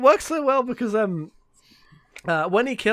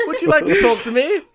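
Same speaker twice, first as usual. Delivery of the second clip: louder, laughing, hammed-up fondness; mock doting father; 3 semitones higher, 5 dB louder than usual. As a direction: gush over your son with exaggerated affection. Mock doting father to violent son.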